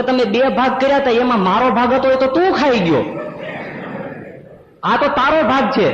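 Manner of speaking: put-on boy wailing at the doctor, high crying whine; crying child. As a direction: wail like a spoilt boy cheated of his share. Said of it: "તો છોકરો રડવા માંડ્યો".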